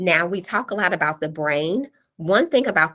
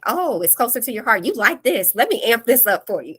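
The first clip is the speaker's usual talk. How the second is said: higher, coaxing voice of the brain; the brain as a sly tempter, raised pitch; the brain talking; 5 semitones higher than usual. Pretend. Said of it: "your brain is like".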